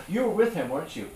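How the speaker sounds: high, loud accusing question; accusing bystander. Retold or imitated. Bystanders cornering Peter, accusing call. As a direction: pounce on him with it. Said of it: "when they go".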